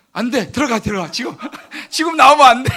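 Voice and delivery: half-laughing mock command to tears; laughing mock plea. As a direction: beg the tears to stay in, giggling. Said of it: "스스로 이거 말한대".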